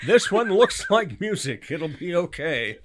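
slow, high, laughing quote; laughing mock quote. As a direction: quote her back slowly, laughing. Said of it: "we have a quote from Elise Kellogg".

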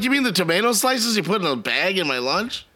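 whiny spoiled pouty drawl. Retold or imitated. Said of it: "I sound like a little spoiled brat kid".

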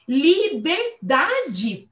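"Liberdade" stretched very slowly with a falling tune; drawn out. Shown as a demonstration. Savoring "Liberdade" for her listeners, very slowly. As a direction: linger long on "Liberdade" and let it fall.

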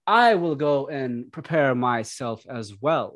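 lightly voiced lordly god; a hint of the pompous host; god character voice. God figure instructs servants.

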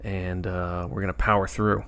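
tired, dry vocal fry voice. Real, not acted. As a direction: speak through a tired throat with fry. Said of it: "I'm dealing with a little bit of vocal fry going on here".

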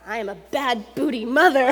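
preacher lightly voicing God; mock God proclamation. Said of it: "come down and say".

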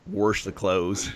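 "wash" said warsh, slow; okie accent. Shown as a demonstration. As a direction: warsh the clothes, okie style. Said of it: "pronunciation changes".

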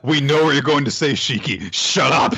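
exasperated put-on outburst; mock telling-off. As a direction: cut someone off in mock anger. Joining in acted telling-off of Shiki.

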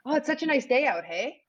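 chatty Albertan accent with a tag "hey"; Alberta Canadian "hey". Shown as a demonstration. Canadian demonstrating small talk to host, Alberta accent. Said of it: "it's more, it's more hey".

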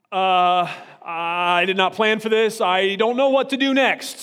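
loud, flustered mock panic, voice climbing; panicked husband. Husband panicking after his wife disagrees, loud flustered mock panic. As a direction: blurt it out like a caught husband with no plan. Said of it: "And he's like".

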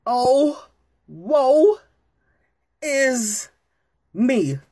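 mock tragic lament, drawn out; hammy stage actor. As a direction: wail it like a ham actor. Mourning the injury news theatrically.

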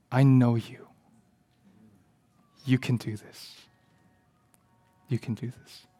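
softening, sincere encouragement; quiet reassurance. Retold or imitated. Mentor encourages a struggling student, quietly reassuring. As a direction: reassure gently, fading to very soft.

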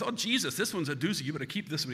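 Boston doctor marvelling at his find; Boston accent. Retold or imitated. Doc shows boy a big rock, amused Boston accent. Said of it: "he's from Boston".

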